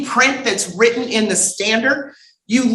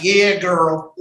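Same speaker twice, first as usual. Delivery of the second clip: lightly put-on Southern girlfriend talk; casual Southern dialect; 3 semitones lower than usual. Imitating Southerners back with their folks, casual Southern dialect. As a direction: slip into relaxed Southern dialect. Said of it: "then they get with their folks".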